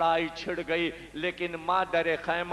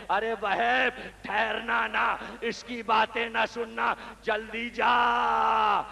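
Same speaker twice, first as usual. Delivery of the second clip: raised, slow call to hurry him on; mother's urging call; 4 semitones higher, slower than usual. Retold or imitated. Mother urging son Wahab to hurry to battle, raised slow call.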